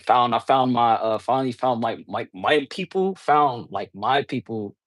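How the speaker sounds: stumbling over the words; stuttering. Real, not acted. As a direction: stutter and restart the phrase. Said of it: "'cause I'm stuttering".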